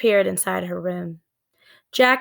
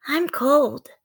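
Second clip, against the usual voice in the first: put-on higher girl's voice, plainly stated; 6 semitones higher than usual. Annie shivering in the treehouse, small girl's voice. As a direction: say it like a chilly little girl.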